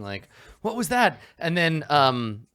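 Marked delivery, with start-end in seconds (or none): 0.6-1.2 high-pitched startled call, only lightly raised; mild acted shout. Knights after a booming explosion, mock shouting. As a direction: half-shout it as a confused knight.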